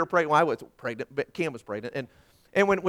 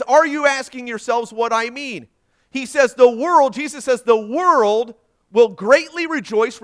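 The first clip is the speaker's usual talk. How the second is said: loud, high preacher's delivery; raised declamatory pulpit voice; emphatic scripture reading; 5 semitones higher, 12 dB louder, slower than usual. Acted. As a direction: proclaim it forcefully to the congregation. Emphatic reading of Jesus' words.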